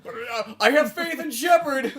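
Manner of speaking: hammed-up high-pitched stoic crewman; complain, then declare devotion, laughter underneath; faithful captive. Captive crewman awaiting rescue by Shepard, mock-earnest faith.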